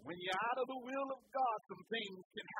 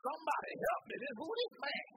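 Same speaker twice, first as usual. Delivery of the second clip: panicked sailor; 6 semitones higher than usual. Retold or imitated. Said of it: "calling on everybody".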